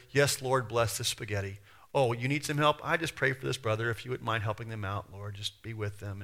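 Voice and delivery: mumble-free but listless acted prayer; mundane rote prayer. Preacher imitating someone praying over spaghetti, routine and powerless. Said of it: "it's just these very mundane".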